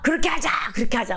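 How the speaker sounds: high-pitched eager crowd shout; crowd agreeing. Acted. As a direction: call out assent like a crowd. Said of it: "백성들이".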